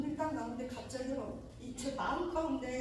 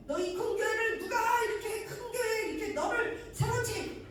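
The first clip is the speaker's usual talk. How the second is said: sudden high, loud voice of God; booming divine voice; 8 semitones higher, 4 dB louder than usual. Retold or imitated. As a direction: thunder it out as the Spirit confronting. Holy Spirit voiced in testimony.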